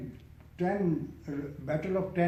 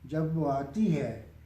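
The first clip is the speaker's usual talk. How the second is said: poem recitation. Acted. Poet reciting a nazm about death, measured recitation. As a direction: recite in separate phrases, easing down at the end.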